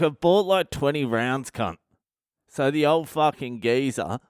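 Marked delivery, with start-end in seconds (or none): 0.0-1.8 mock indignation. Arguing with old geezer about whose round it is, mock indignant. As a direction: bicker playfully over drinks.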